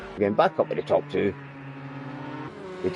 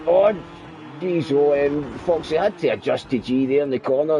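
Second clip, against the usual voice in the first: excited; 4 semitones higher than usual. Real, not acted. Crash in the corner.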